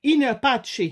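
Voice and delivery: in pace said as in patché, the Italian way; in pace pronounced in-a-patch; Italian-style Latin. Shown as a demonstration. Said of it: "je vais plus dire de façon italienne".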